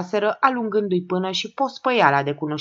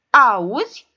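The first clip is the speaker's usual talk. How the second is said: higher and louder shriek; shrill-free loud cry, higher; 6 semitones higher, 7 dB louder than usual. A narrator's reading. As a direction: screech it in outrage. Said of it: "țipă Gigeta".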